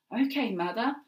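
proud and keen to be helpful; exclaiming. A narrator's reading. Daughter promises her mother to help, eagerly exclaiming. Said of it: "Abby exclaimed".

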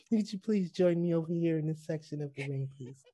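soft, courteous invitation; mock politeness. Joking fighter inviting rival into ring, mock politeness. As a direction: ask ever so nicely for a fight.

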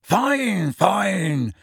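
high, falsely breezy; a feeble show of being fine; forced airiness. A narrator's reading. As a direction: brush it off too brightly. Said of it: "feeble assumption of airiness".

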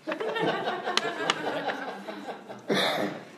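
high cackling villain laugh; evil laugh. Acted. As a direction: cackle like a mustache twirling villain. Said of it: "This is my evil laugh".

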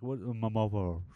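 mumbled, half-swallowed words; mumbling kid. Retold or imitated. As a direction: play a mumbling kid, lightly. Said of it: "this kid is mumbling".

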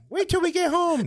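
high, loud prim white-mom voice; mock a prissy white mom's threat. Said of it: "somebody's white mom saying".

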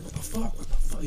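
high-pitched imitation of an angry girl; mock mad girl. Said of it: "She was so mad".

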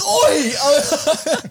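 high mock-angry "Oi!" with a laugh in it; retold angry oi. Retold yelling at Liam for pulling the card, high laughing "Oi!". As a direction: shout "Oi!" high, half laughing. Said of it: "I'm like".

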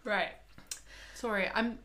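talking through a yawn. Real, not acted. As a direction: yawn while speaking. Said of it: "I keep yawning".

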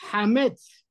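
HAMETZ with a firm throaty h; het sound. Shown as a demonstration. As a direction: push the h of "hametz". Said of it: "es más fuerte".

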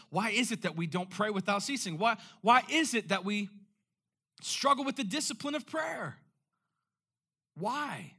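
a preacher crying out to the congregation; impassioned preaching. Real, not acted. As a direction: drive each why harder. Preacher's rhetorical questions, building.

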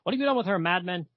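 hammed-up villain losing his cool; freaking out. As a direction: demand it in a hurried mock panic. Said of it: "Dracula freaks out".

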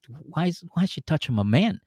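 mildly indignant imitation of a jealous girlfriend; acted-out jealous grievance; retold jealousy. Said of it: "Taylor gets jealous".

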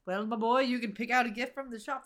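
lightly voiced Scottish accent; amateur Scottish accent. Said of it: "That's my Scottish accent".

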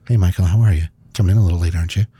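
a sly mom catching her son. Retold or imitated. Mom ambushing him from the fridge.

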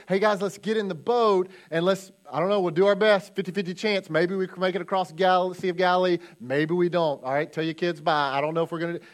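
loud, breezy, half-joking shrug; a careless captain waving the crew off; mock wishy-washy leader. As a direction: play a leader with no confidence at all. Mock unsure Jesus.

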